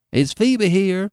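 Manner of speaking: put-on old man asking with a touch of urgency; eager demand. A narrator's reading. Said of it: "he demanded eagerly".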